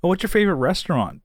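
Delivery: high, quick small-talk question; mock eager chatter. Mimicking someone who keeps chatting.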